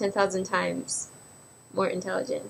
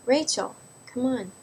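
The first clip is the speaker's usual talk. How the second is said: scolding herself; 5 semitones higher, 3 dB louder than usual. Real, not acted.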